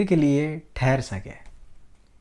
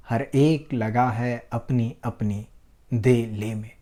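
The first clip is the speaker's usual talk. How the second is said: measured, expressive Hindi verse reading; poem recitation; 2 semitones lower, 5 dB louder than usual. Acted. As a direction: recite it line by line, leaning on key words, with deliberate pauses.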